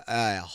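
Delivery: soft raspy croak; mock husky groan; imitated raspy voice. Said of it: "those girls with, like, raspy vo".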